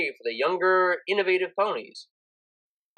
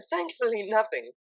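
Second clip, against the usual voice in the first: smiling; 4 semitones higher, 3 dB quieter than usual. Acted. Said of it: "she smiled".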